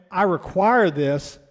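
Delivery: slow, deliberate, every word weighted; firm requirement. Shown as a demonstration. Coach telling Morgan a firm rule, slow and deliberate. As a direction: lay it down as a rule, slowly. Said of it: "There's a difference in me telling Morgan".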